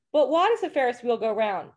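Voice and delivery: lightly voiced whiny little kid asking why; nagging toddler. Toddler pestering mom at the state fair, mock whiny questioning. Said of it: "the two-year-old kid who goes to the state fair".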